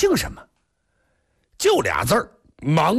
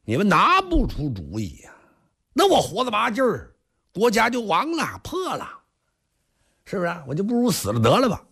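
tearful; 9 semitones higher than usual. Acted. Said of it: "国王含着泪".

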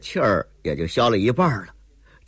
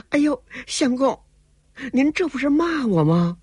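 put-on much higher, hurt young woman on the verge of tears; wounded courtesan. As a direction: protest as if wrongly scolded. Courtesan hurt by his accusation.

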